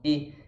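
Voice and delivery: closed "E" with lips spread sideways; spread Portuguese E. Shown as a demonstration. Teacher showing mouth shape, spread-lipped E. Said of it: "abrindo a boca lateralmente pra fazer esse som".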